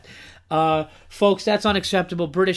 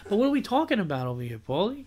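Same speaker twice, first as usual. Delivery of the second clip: Goodfellas guy impression; 5 semitones higher than usual. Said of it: "you do that impression perfectly".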